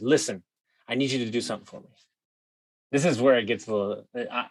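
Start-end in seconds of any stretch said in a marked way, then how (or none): 0.0-1.9 softer, lower, confidential ask; quiet conspiratorial favour; hushed request. Retold or imitated. Asking clerk for a fake invoice.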